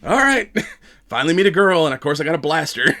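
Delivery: laughing quote. Retold or imitated. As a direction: give in with a laugh. Johnny reluctantly agrees, laughing.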